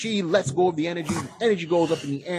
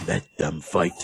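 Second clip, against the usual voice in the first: deep movie voice; 10 semitones lower, slower than usual. Retold or imitated. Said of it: "the first thing he says".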